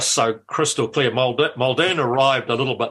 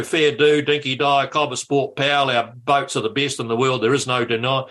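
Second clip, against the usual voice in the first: Australian salesman. Retold or imitated. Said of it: "opened up like a salesman".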